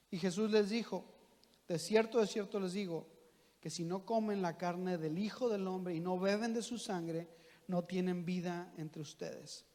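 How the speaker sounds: measured, solemn Bible reading; scripture reading. Acted. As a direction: read the passage as holy scripture. Reads the Gospel passage aloud. (lectura bíblica solemne y pausada)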